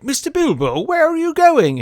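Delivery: very high, put-on little voice; random hobbit. Neighbour calling after running Bilbo, high hammed-up shout. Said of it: "some random hobbit's like".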